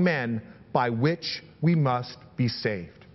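measured, emphatic Bible reading; scripture reading. Acted. Preacher reading Peter's speech to the rulers, declarative scripture reading. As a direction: read it out deliberately, leaning on key words.

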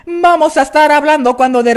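speech cracked by sudden squawks; breaking the voice. Shown as a demonstration. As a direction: let the voice break mid-word. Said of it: "tenemos que quebrar nuestra voz".

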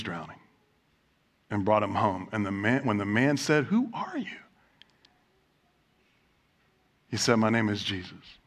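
soft, low, near whisper; hushed reveal. A narrator's reading. Preacher reveals the rescuer to his flock, hushed and low. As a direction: let the name land in a hush.

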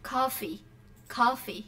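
"Coffee" ending in a short ee sound; short final y. Shown as a demonstration. Teacher asks students to remember the sound, short final y. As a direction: model "coffee" clearly, keeping the last vowel short. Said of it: "remember that coffee has a shorty".

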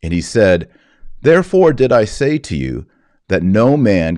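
measured, formal liturgical reading voice; solemn gospel reading. Acted. Priest proclaiming the Gospel to the congregation, solemn reading.

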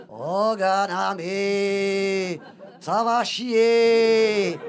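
very slow, drawn-out mock threat; hammed-up slow chief's warning. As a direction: drag out the menace slowly.

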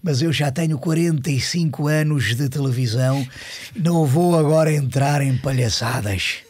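lightly voiced stately old professor, slow; slow, measured lecturing tone of the old professor; Hermano Saraiva impression. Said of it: "e ele assim". (imitação leve e lenta do professor Hermano Saraiva)

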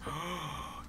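sudden breathy gasp. Real, not acted. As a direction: draw in a startled breath. Imagines being heard by the villain.

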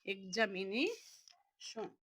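এক্সামিনেশন said slowly, pausing before the last syllable শন; drawn-out word. Shown as a demonstration. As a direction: stretch out এক্সামিনেশন, then drop শন in quietly. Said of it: "পুরাটা লিখলে কি হয়?".

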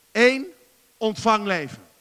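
loud, high counting call. Real, not acted. Preacher calling out his points to the congregation, loud and high. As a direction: shout each number to the hall.

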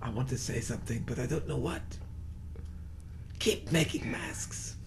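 quiet. Pretend. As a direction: say it softly, almost to yourself. Mock farewell to Michael.

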